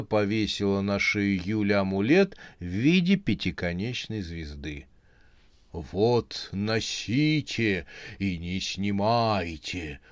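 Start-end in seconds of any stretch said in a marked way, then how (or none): 5.7-10.0 slow, pleased and calm; satisfied. Acted. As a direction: hand it over contentedly. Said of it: "удовлетворённо сказала".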